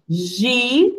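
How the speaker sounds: "Gi-" held alone as one beat; syllable sounded out. Shown as a demonstration. Teacher counts mouth openings in girafa, "Gi-" sounded separately. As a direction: isolate "Gi-" as a drawn-out syllable. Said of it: "Quantas vezes a gente abre a boca".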